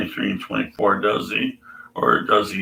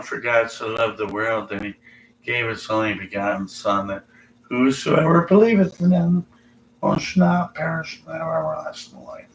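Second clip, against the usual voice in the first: 1 mock reverent recitation; 2 semitones higher than usual.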